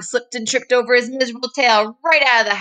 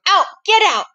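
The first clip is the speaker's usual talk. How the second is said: shouting; 12 semitones higher, 4 dB louder, faster than usual. Acted. Granny chasing dog.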